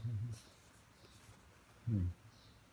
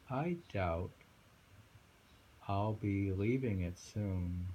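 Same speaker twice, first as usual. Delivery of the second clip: slow, raised on Mount; poem reading; slower than usual. Acted. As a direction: dwell on each line. Reads the poem aloud.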